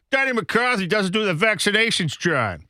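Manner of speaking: high, exaggerated Boston griping; put-on Boston voice; mock Boston accent. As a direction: grumble like a cartoon Bostonian. Continuing the mock Boston bit.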